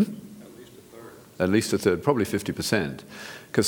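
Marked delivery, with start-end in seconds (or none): 0.0-1.1 breathy hushed whisper, slow. Acted. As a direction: murmur it like a secret, slowly. Whispered answer to own question.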